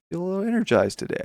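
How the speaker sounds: high, fast and bright with energy; pumped up, quick delivery; energized. Real, not acted. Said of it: "I feel energized".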